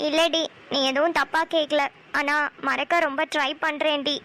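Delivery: understated tearful admission, slowing down; slow, halting words, holding back tears. Acted. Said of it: "அழுகாத".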